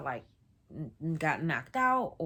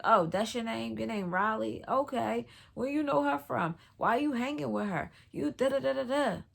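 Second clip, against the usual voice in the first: higher, pointed mock questioning; mimicked interrogation; 4 semitones higher than usual. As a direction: imitate suspicious people firing questions. Crowd interrogating her, retold.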